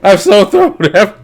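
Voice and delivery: exasperated laugh through the words; laughing frustration. Real, not acted. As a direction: laugh at your own confusion. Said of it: "I'm just so fucking thrown off".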